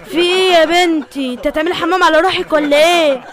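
mocking telling-off of a student; scolding professor. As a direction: chide the latecomer with sarcastic endearments. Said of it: "الدكتور بيزعق فيا".

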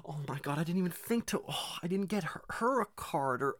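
mock panic. Retells mom's panic.

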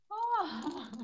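loud, high swear; yelling at the man with the pipe; retold curse. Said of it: "Aí eu falei". (palavrão gritado, agudo e alto)

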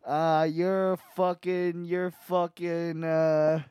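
put-on loud New York tough-guy accent; a Brooklyn butcher barking slowly; New Yorker accent. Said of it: "a New Yorker accent".

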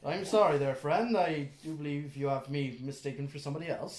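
lightly voiced polite elf; elven stranger. GM answers as the mistaken elf.

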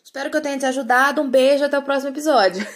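fast joking outro, laughing at the end; rushed fake sign-off. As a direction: rattle off a fake goodbye.

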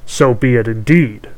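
loud, grudging crone; hag voice. Acted. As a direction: concede like a sly witch. Hag agrees.

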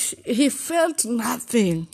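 high, slow, pained "he felt nothing"; high anguished line. Retold or imitated. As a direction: stretch it out high and hurt. First take, high and slow.

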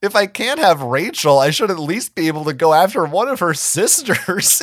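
loud, high, defensive outburst. Acted. Marco defending his crush on the cousins, loudly. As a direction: bristle and push back hard. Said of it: "he said defensively".

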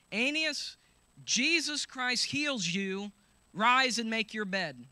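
Peter's healing command, proclaimed; commanding proclamation. Acted. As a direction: call him up with authority.

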